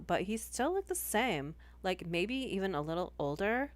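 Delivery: lightly voiced valley girl reading; a hint of valley girl uptalk. Shown as a demonstration. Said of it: "read this next story in Valley Girl".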